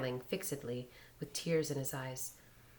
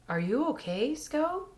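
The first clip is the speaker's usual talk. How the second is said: breathless worried asking; 11 semitones higher than usual. A narrator's reading. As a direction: ask it out of breath. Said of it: "asked breathlessly".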